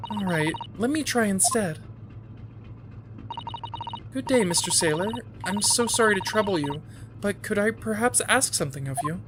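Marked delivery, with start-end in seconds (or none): 4.1-9.2 put-on young lawyer sweet-talking a sailor, mild polite voice; overly polite. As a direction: politely ask a favour, gently. Player voices polite Ryunosuke.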